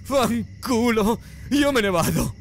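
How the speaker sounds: sfogo gridato, voce acuta; sbraitare. A narrator's reading. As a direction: mollare tutto sbraitando. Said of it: "sbraitò un attimo dopo". (grido concitato)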